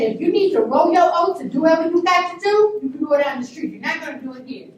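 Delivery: loud, high scolding that settles at the end; retold no-nonsense telling-off; firm. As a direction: send him packing firmly. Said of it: "I stood firm".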